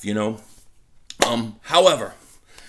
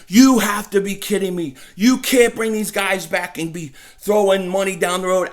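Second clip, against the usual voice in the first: a mild mock outburst; retelling his outburst; 4 semitones higher, 4 dB louder than usual. Fan recalling his first reaction to the Eagles report, mildly heated. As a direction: replay the rant, lightly heated. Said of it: "I flipped out".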